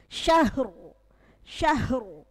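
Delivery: syahru with a thick ro at the pause; heavy ro at the stop. Shown as a demonstration. Teacher shows students the pausal reading. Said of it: "roknya harus te-, tebal".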